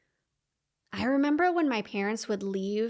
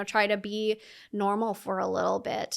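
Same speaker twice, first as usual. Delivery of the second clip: ordinary delivery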